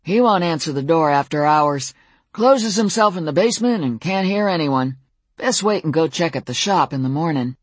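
a hint of a folksy old cowboy; easygoing old neighbor, lightly voiced; lightly voiced old man. The old Fae neighbor speaks.

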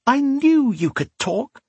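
put-on very high little girl's voice, drawn out; delighted exclamation. A narrator's reading. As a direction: exclaim it with a child's glee. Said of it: "Sonia exclaimed, grinning".

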